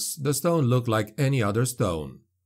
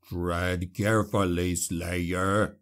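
warning growl; 4 semitones lower, much slower than usual. A narrator's reading. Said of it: "growled Wolfheim".

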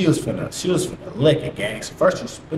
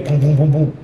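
punchy booms for knocks; quick run of hard booms; imitated door banging; 5 dB louder than usual. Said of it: "When they beat on the door".

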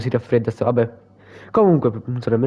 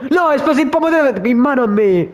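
high laughing exclamation; giggling through the words; 10 semitones higher than usual. Real, not acted. Tomato exploded, laughing.

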